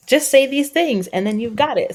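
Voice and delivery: sing-song send-up of a quick fix; mocking. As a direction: parody the too-easy promise. Mocking oversimplified parenting advice.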